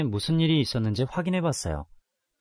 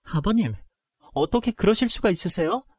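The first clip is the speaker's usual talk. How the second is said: angry confrontation; 6 semitones higher than usual. Acted. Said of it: "너무 화가 나서 시아버지에게 바로 달려가 따졌습니다".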